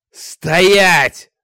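loud, high command shout. A narrator's reading. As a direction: bellow the order. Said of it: "закричал Богдан". (громкий крик «Стоять!»)

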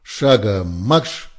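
the lieutenant ordering the squad into the showers, shouting; furious command. A narrator's reading. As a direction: bark the punishment.

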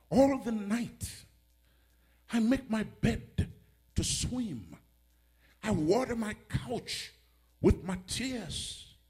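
slow, measured psalm recitation; solemn pulpit reading with long pauses; scripture reading. Real, not acted. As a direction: read the verse out phrase by phrase, drawn out. Reads psalm aloud slowly.

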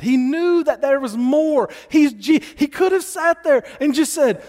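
preaching at full force, pitched high. Acted. Pastor urging the church, preaching with rising force. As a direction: drive the point home to the congregation.

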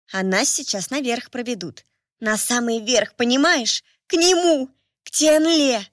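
rising to an excited squeal; urgent whisper. Acted. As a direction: builds from hushed to thrilled. Excited servant girl whispering.

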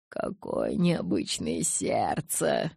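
slow, low, sing-song recital; melodic declaiming. Acted. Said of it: "мелодично продекламировал он".

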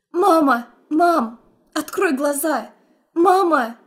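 loud, high panicked cries; desperate calling. Acted. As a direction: try to wake her mother. Calling to fainted mother.

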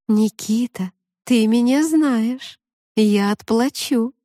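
slow, gentle murmuring mermaid; babbling mermaid voice. Acted. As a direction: purr it like a brook. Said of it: "ласково журчащим".

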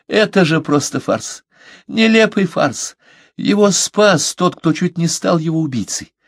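high, halting nervous laugh through the words; nervous laughing outburst. A narrator's reading. Parsel laughs at the absurd trial, nervous high laughter. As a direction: laugh it out, on the edge of hysteria. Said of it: "расхохотался нервным прерывистым смехом".

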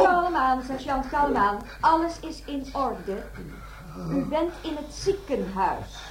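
slow, calm reassurance; soothing nurse. Acted. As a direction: settle the patient gently. Nurse soothes waking patient. (kalmerend en rustig, als een verpleegster)

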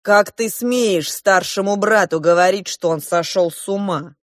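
loud, indignant threats; outraged prince demanding a duel; furious challenge. A narrator's reading.

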